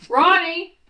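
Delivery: sharp loud call of a name; yelling. Real, not acted. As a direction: shout the name to stop him. Mother yells at son.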